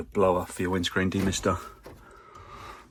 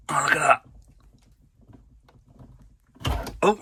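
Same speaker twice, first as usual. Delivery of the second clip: whisper; 7 semitones higher than usual. Real, not acted. Whispers at a part popping loose.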